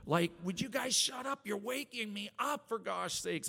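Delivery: high, cranky shout at the birds; shouting at morning birds while hungover; hungover yell. Retold or imitated. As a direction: yell at them, half asleep and annoyed. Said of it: "hungover going".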